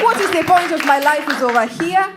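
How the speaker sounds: put-on high-pitched, exasperated Kenyan accent. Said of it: "that's how I was talking".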